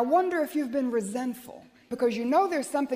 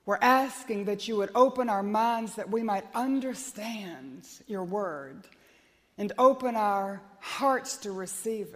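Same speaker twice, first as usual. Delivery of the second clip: congregational prayer; 2 semitones lower than usual. Acted.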